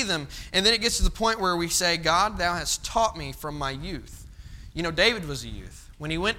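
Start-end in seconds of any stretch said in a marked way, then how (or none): 2.0-4.3 slow solemn scripture. Acted. Scripture quoted slowly.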